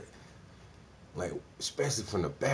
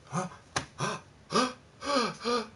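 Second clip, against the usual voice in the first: shocked gasps; 12 semitones higher than usual. Acted. Mother gasping before passing out.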